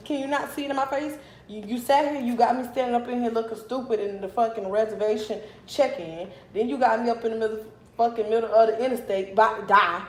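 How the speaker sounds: acted-out indignant rant; irritated, incredulous retort, lively but not full fury; retold upset. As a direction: replay an exasperated telling-off. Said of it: "So I was highly upset".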